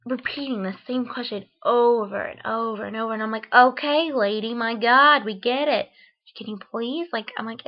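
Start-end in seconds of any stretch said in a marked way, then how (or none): 3.5-7.1 loud exasperated sigh-talk at the teacher; fed up, let it burst out. Retold or imitated. Annoyed inner reaction to repetition.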